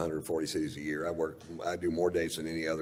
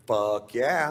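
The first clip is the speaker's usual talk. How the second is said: quick, higher, excited agreement; eager yes; 5 semitones higher, 4 dB louder than usual. Retold or imitated. Accepting the yacht invite from Doc, eager. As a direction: jump at the invite. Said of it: "And I said".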